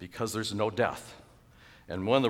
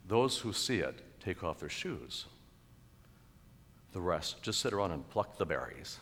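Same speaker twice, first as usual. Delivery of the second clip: poem recitation; 3 semitones lower, 7 dB quieter than usual. Acted. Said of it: "Elizabeth Barrett's Browning's, uh, poem afterwards".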